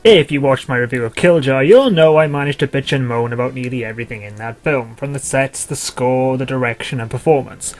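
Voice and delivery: loud, exasperated review rant; angry ranting. Acted. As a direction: rant at a bad movie.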